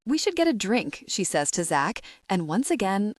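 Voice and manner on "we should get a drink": sultry. Acted. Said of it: "The sultry voice is for men".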